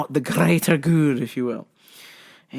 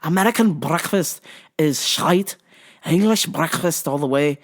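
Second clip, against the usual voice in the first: lightly put-on Liverpool accent; amateur Scouse impression; Paddy Pimblett impression. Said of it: "the Liverpool accent".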